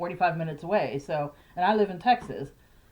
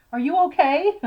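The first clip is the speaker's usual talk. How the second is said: higher, louder worried question; urgent concern; 9 semitones higher, 7 dB louder than usual. Retold or imitated. Asking her brother after the news, urgent and concerned. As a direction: check on him, alarmed.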